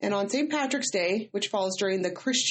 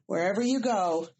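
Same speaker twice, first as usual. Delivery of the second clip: reading a toast. Pretend. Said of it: "here it goes".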